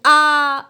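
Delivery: आ held long and level; open-mouth vowel. Shown as a demonstration. Teacher showing lips that do not round, held open आ. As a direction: open up and sustain आ. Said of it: "अब मुंह खुला है".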